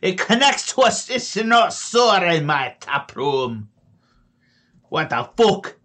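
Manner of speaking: high, loud, slow halfling shout; angry halfling. Acted. Tavern halfling yelling at intruders in his cellar, angry high shout.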